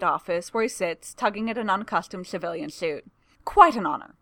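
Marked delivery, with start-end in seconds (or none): 3.4-4.1 higher, stumbling nervous voice; nervous stammering assistant. A narrator's reading. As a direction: fluster over every word. Assistant still flustered.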